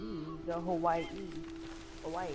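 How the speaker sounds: Hawaii with the final i said as ee; teaching pronunciation. Shown as a demonstration. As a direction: say Hawaii as hoh-WAI-ee. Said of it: "second I comes out sounding like an E".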